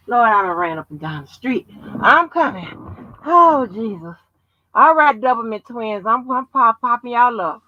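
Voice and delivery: panting after running around; winded, talking between breaths. Real, not acted. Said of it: "child, I'm out of breath".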